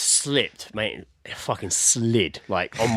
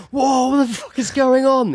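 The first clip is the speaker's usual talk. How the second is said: higher and louder, drawn-out mock shock; a husband walking in, startled, higher and slow; shocked exclamation; 13 semitones higher, 5 dB louder than usual. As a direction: act stunned at the muddy bathroom. Husband walks in on mess.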